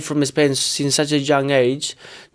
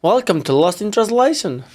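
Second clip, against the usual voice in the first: put-on "Translation" copied in her English accent, pitched up; mock English accent; 5 semitones higher than usual. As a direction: copy her welcome line. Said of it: "um, say".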